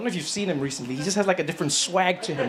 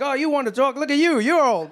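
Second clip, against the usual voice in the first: sassy comeback, pitched up; mock Biden retort; 7 semitones higher than usual. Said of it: "He's like".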